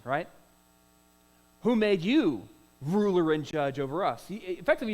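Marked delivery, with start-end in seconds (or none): 1.6-4.2 louder, harsh challenging question; harsh retort. Acted. The guilty Hebrew snaps back at Moses, harsh and louder. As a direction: throw the challenge back hard. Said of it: "That is a really harsh question".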